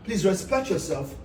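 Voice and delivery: low, soft and controlled; real held-back firmness, voice dropped low; stern restraint. Real, not acted. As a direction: quietly order them out, keeping it polite. Stern request amid family quarrel.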